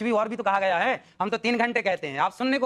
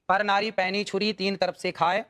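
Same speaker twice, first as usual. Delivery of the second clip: recited couplet; 2 semitones lower, slower than usual. Shown as a demonstration.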